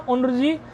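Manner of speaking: उनर्जी with n first, then r; n before r. Shown as a demonstration. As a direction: model उनर्जी as un-r-ji. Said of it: "रेफ का नकार के बाद करना". (उनर्जी में पहले नकार)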